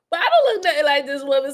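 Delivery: laughing through the denial; laughing protest. Real, not acted. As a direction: deny it while cracking up.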